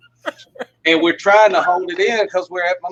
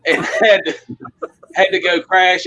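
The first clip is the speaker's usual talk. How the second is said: laughing while telling; 4 semitones higher than usual. Real, not acted. Laughs while retelling the puppet plot.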